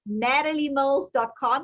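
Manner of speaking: natalie mills dot com in an American accent. Shown as a demonstration. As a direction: say the web address the American way. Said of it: "and then I'll try the American".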